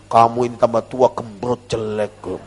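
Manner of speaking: tactless insult. Shown as a demonstration. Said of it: "Jangan begini".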